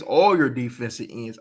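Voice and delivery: "all" punched hard at the start; stress on all. Real, not acted. Analyst insisting to viewers, "all" stressed. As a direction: lean on "all" to include every end. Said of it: "I said all of 'em".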